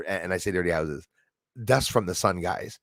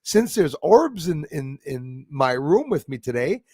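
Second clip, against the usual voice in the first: slow, higher, drawn-out imitation; imitating dancing Gina; 5 semitones higher, 4 dB louder, slower than usual. Host imitating dancing Gina inviting orbs to dance, lilting. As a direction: stretch the words in a lilting, put-on woman's voice. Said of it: "She's saying".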